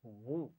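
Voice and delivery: وو said thick and heavy, as the teacher asks; a thick, rounded وو; heavy syllable. Shown as a demonstration. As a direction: give وو a full, heavy sound. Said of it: "اس کو موٹا پڑھنا ہے".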